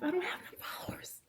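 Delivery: fake-sob the complaint; mock crying. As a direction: pretend weepy whine about followers. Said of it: "mock cry".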